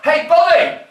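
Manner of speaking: loud, high American "Hey, buddy!"; hammed-up American shout; American fella calling out. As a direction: call out sharply as an American stranger. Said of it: "an American fella about my age".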